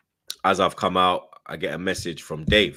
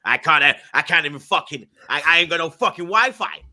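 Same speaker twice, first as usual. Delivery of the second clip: hammed-up ranting boss, higher and louder; imitating the boss ranting; 5 semitones higher, 3 dB louder than usual. Boss ranting over FaceTime, higher and louder imitation. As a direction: mimic the boss cursing down the phone in a rising rant.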